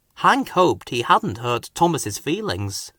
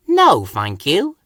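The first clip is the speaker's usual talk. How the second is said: polite; 2 semitones higher, 4 dB louder, slower than usual. Acted. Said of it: "puffed Thomas politely".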